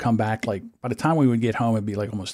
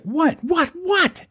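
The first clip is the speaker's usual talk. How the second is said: mock bewildered what; much slower than usual. Groggy friend woken by wife.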